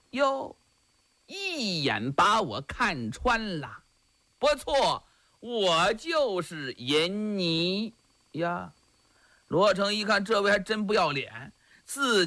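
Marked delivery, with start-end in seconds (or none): 0.1-8.7 lightly voiced flirty nun, drawn out slow; a hint of a shameless temptress purring her confession; mock-seductive, lingering on each word; coquettish nun. Nun admits being wanton nun.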